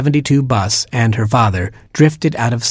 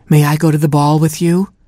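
put-on timid pleading girl; 6 semitones higher than usual. Timid heroine asking.

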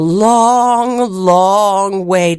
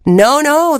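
giant's wife; 7 semitones higher than usual. Acted. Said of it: "the wife said".

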